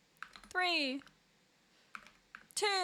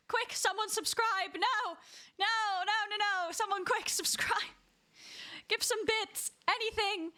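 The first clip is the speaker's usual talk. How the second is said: playful panic; 5 semitones higher, slower than usual. Real, not acted. Panicking as timer hits four twenty.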